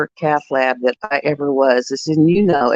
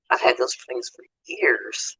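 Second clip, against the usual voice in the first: whisper; 3 semitones lower, 5 dB quieter than usual. Real, not acted. Quiet aside.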